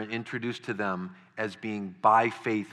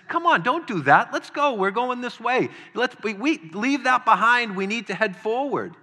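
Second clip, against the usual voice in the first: much higher, louder buddy pep talk, arm round his shoulder; rallying encouragement; 10 semitones higher, 4 dB louder than usual. Acted. God's bold friend urges a struggling guy onward, loud and bright. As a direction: push him forward like a coach who won't let him quit.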